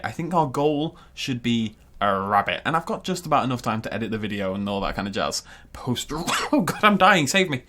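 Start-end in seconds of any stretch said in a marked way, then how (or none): 6.1-7.6 higher, laughing plea for help; laughing distress. Real, not acted. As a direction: plead through your own laughter. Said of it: "I actually feel like I'm dying".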